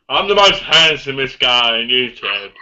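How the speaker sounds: slow, lightly mimicked bragging; mock boast. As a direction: draw out a mock vain introduction. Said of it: "You went like this".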